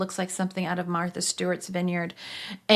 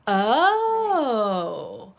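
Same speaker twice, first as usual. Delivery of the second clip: high, drawn-out knowing oh okay; knowing wise woman; 8 semitones higher, 4 dB louder, much slower than usual. Retold or imitated. The wise mentor hearing about the voice, slow and knowing. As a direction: let it rise in slow understanding. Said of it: "she's like this wise woman".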